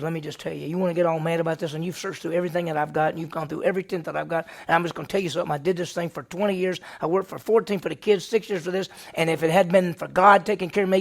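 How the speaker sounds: fast, heated rant; fussing Jacob. Retold or imitated. Jacob fussing fast at Laban, heated. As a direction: rattle off the grievances, worked up. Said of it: "You got Jacob fussing".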